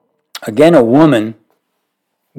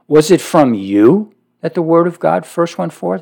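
sarcastic; 6 semitones higher than usual. Retold or imitated. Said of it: "This is sarcasm".

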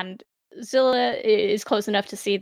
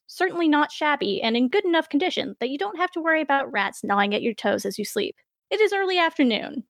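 story narration. A narrator's reading. GM scene setting.

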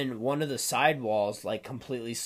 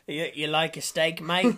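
mock Australian, slightly raised and playful; Australian accent; 3 semitones higher, 4 dB louder, slower than usual. Joking about Outback Steakhouse, mock Australian accent. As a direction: put on a rough Aussie accent. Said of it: "if that's even the fucking right accent".

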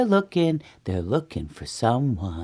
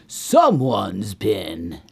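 slow, heavy, lower accusation; suspicious Papa Bear; 5 semitones lower, 3 dB louder, much slower than usual. Acted. Papa Bear discovers eaten porridge, slow suspicion. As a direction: drag out each word ominously. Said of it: "says Papa Bear".

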